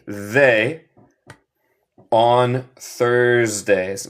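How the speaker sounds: slow, leaving a gap after "They"; slow repeat-after-me model. Shown as a demonstration. Teacher modelling a gapped sentence for repetition, slowly. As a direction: stretch the words and leave room for the blank. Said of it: "Repiten después de mí".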